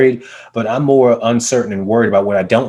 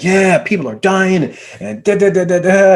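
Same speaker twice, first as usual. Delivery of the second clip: raised, slow mock-worried echo; imitating the client; 8 semitones higher than usual. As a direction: echo it back higher and slower, half-mocking. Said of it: "He's like".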